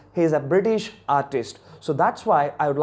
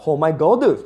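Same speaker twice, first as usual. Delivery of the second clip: lightly mimicked Chinese-accented exclamation, louder; imitated Chinese accent; 5 dB louder than usual. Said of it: "that was the sound, a different sound".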